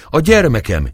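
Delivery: put-on sob-choke the call for her child; choking cry. A narrator's reading. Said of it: "kiáltozta fuldokolva".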